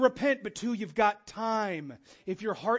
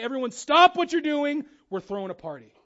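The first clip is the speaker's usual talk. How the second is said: announcing a party; 3 semitones higher, 6 dB louder than usual. Pretend. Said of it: "It's like".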